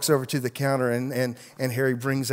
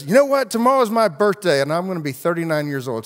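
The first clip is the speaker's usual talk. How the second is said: much higher and louder, bursting with news; excited announcement; 5 semitones higher, 5 dB louder than usual. Retold or imitated. Prostitute telling her friend about her birthday, excited and loud. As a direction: blurt it out like big news.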